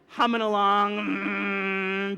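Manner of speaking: droning imitation of a van; van engine hum. Imitates old van droning along.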